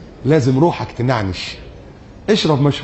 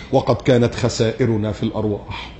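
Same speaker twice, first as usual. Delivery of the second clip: mock news anchor; 5 semitones lower, 5 dB quieter than usual. Imitating a news report.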